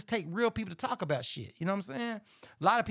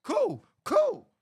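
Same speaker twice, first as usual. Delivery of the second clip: mock easygoing reply; 12 semitones higher than usual. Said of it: "what I'd have said".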